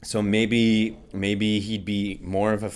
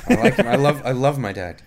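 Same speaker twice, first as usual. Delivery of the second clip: laughing; 4 semitones higher, 4 dB louder than usual. Real, not acted.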